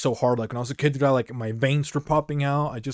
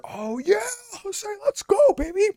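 high, hyped-up cheer; cheering older kids. Retold or imitated. Older kids cheering him at the top of the ramp, high excited cheer. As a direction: hype him up like a teammate.

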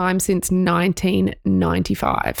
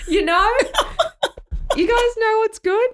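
put-on Aussie accent. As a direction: ham up a broad Aussie accent. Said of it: "in a full Aussie accent".

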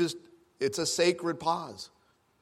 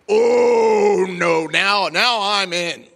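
higher, loud defiant cry; fired-up shout; 5 semitones higher, 9 dB louder, much slower than usual. Acted. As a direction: rise to the fight. Husband rising to the fight.

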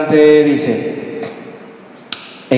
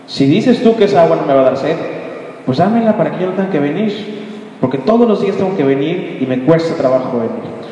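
brisk, mocking samaritan woman; sarcastic woman; faster than usual. Samaritan woman mocking Jesus, fast and sarcastic. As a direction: toss it back at him with a scoff. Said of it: "está siendo sarcástica".

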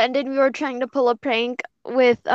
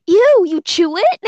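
disgusted; 7 semitones higher, 7 dB louder than usual. Real, not acted. Disgusted reaction to chewing water.

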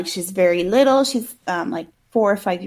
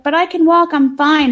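put-on high, louder child's protest; little girl; 6 semitones higher, 5 dB louder than usual. Little girl protesting to mom in the store, high insistent voice. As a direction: protest as a small kid. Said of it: "and she's like".

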